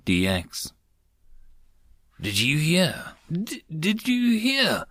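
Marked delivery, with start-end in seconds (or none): 2.2-4.8 high, breathless rabbit cry; excited rabbit. A narrator's reading. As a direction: call out eagerly like a small rabbit. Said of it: "the rabbit cried out".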